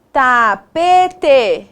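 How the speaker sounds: "Tapete" in separate, stretched syllables; deliberate, syllable-by-syllable "Tapete"; sounding out. Shown as a demonstration. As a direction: build "Tapete" piece by piece. Teacher sounding out word.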